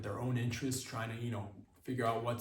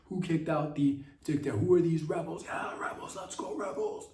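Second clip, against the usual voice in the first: much higher and louder, whooping like at a game; excited fan cheering; 8 semitones higher, 3 dB louder than usual. Retold or imitated. Comic cheering for the rebels, high whooping excitement. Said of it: "whenever I hear rebels kicking out".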